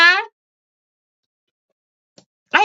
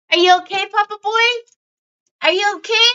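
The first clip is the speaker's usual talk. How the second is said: high, lilting pet-parent questions; doting dog talk; 7 semitones higher, much faster than usual. Real, not acted. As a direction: coo to the dog, checking he's fine. Checking on her dog in baby talk.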